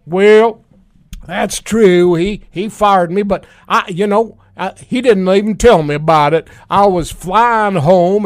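Rex Tillerson impression. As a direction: play the fired secretary as an aggrieved good ol' boy. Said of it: "former Secretary of State Rex Tillerson".

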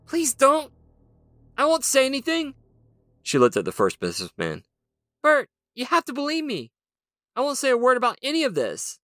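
pleading woman voice. Acted. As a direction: beg for her mind. Captive woman begging.

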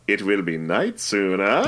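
knowing nudge-nudge innuendo; a wink on night soon; suggestive. Retold or imitated. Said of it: "clearly giving the old nudge".

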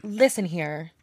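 over-the-top reading of a hate message; dramatic voice. Pretend. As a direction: read it like a melodramatic villain speech. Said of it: "Read it in a dramatic voice".

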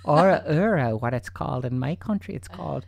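a playful put-on Irish accent. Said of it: "I'm not supposed to do Irish accents".

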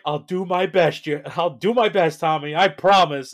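high, loud, earnest promise; mock Jeremy. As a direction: swear it up high like a keen kid. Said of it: "he's like".

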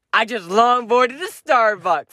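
slow, lightly voiced smoker impersonation of a friend. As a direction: draw it out, mocking his voice. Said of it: "in your head I talk like a smoker".

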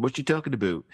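mock eastern Canadian "aboot"; imitating a heavier eastern Canadian accent. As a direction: lean on the eastern Canadian "oo" in about. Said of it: "a little bit more about and".

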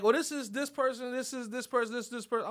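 put-on high, light voice for the young women making introductions; girly introductions. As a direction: chirp the introductions like the girls at the table. Girls introducing their friends.

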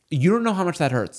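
high playful dog voice. Retold or imitated. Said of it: "Roxy will be like this".

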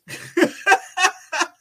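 high, loud giggle burst; sudden laughter. Real, not acted. Host interrupts his own commentary, high laughing fit. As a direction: break up mid-sentence. Host breaks up mid-speech.

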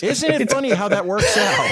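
laughing high-pitched through the words; giggling at the irony. Real, not acted.

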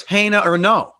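cold cracker Pennsylvania twang on Hana; Northeast PA accent. Retold or imitated. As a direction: local Scranton accent saying Hana. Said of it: "Northeast P A cold cracker accent".

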